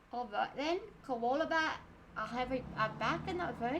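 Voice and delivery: put-on accidental Irish accent. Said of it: "now I have an Irish accent".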